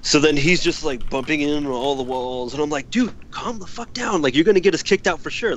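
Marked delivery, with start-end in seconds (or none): 2.9-5.6 high-pitched fed-up scolding; retold exasperated plea. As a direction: imitate reining in a drunk friend. Retold scolding of drunk friend.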